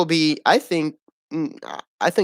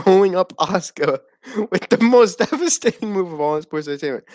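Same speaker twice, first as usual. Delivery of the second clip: laughing through the words; mock the move while cracking up; talking through derisive laughter; scornful laughing; 4 semitones higher than usual. Real, not acted.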